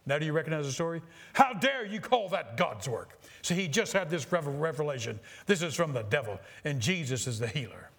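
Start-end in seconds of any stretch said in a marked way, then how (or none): 1.3-3.2 emphatic, acted outrage; righteous indignation. Preacher re-reading the pastor's rebuke to the doctor, indignant. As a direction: challenge him with preacherly fire. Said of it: "I was almost frenzied with divinely imparted anger".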